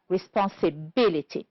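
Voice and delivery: "responsibility" stressed on BIL; stress on fourth syllable. Shown as a demonstration. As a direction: model "responsibility" with the weight on BIL. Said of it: "stressed on the fourth syllable".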